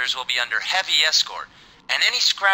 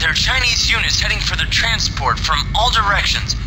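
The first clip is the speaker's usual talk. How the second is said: higher, louder urgent alert; urgent warning; 5 semitones higher, 4 dB louder than usual. Acted. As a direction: warn the pilot urgently over comms. Urgent radio warning to lieutenant.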